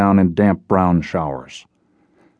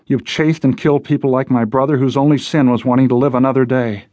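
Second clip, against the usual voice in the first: higher-pitched, heated reproach; bitter accusation; 4 semitones higher than usual. Acted. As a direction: accuse the hunter, pitch raised. Jess bitterly accuses Logan.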